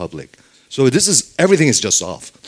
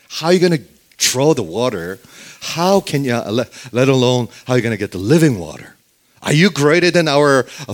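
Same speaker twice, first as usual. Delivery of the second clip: half-hammed sarcastic retort. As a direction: needle him with sarcasm. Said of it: "she's just being sarcastic".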